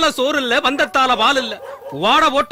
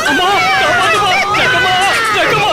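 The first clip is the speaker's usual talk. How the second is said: high, loud panicked wailing; terrified pleading; 13 semitones higher, 5 dB louder than usual. Acted. Soothsayer begging Jakkamma to save him from demons, shrieking in terror. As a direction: cry out for rescue, climbing to a scream.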